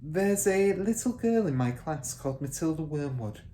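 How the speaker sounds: lightly voiced young teacher, tentative; teacher cautiously raising a pupil with the headmistress; hesitant beginning. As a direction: ease into it carefully. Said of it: "Miss Honey began".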